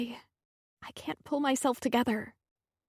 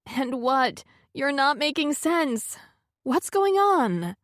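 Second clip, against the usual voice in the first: higher, louder, slow demanding question; pressing friend; 5 semitones higher, 3 dB louder, slower than usual. Acted. Friend confused and pressing, higher demanding voice. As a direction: press her to explain.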